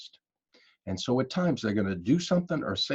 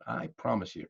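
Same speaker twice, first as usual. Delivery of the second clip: "promise" dropped soft and falling; softer promise; 6 dB quieter than usual. Shown as a demonstration. To the audience, quietly repeating the promise with "promise" falling. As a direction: ease off and fall on "promise".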